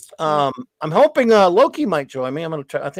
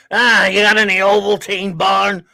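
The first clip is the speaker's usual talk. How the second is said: James Gregory impression; 2 semitones higher, 4 dB louder than usual. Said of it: "James Gregory".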